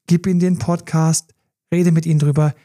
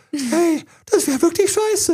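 much higher, thin little voice of doubt; small inner voice; 13 semitones higher, slower than usual. Retold or imitated. Inner doubt whispering to him, in a high little voice. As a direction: play the tiny nagging voice in his head, pitched way up. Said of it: "so eine kleine Stimme gesagt".

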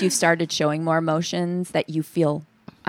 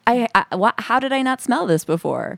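building from startled to much higher, louder horror, then a hushed "reeks"; mock disgusted shock; 4 semitones higher, 4 dB louder than usual. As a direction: act out the dawning disgust. Imagining smelling the pile.

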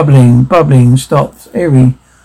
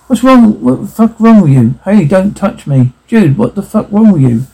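higher-pitched irritated challenge; heated quarrel; 5 semitones higher than usual. Acted. Friend challenging drunk dude after being touched, indignant. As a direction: confront him, indignant and heated.

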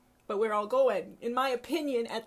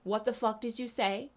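stunned question. Real, not acted. Reacting to the pastor's clip.

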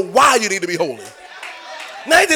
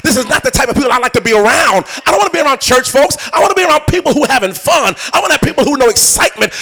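mock reluctant churchgoer; 4 semitones higher, 6 dB louder than usual.

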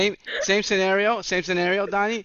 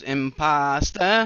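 mock Jamaican; much slower than usual. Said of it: "when he goes".

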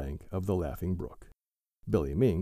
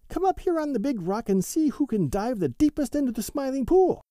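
high and louder, rising to the end; eager challenge; 5 dB louder than usual. A narrator's reading. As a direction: dare your friends to a contest. Billy Mink challenges friends.

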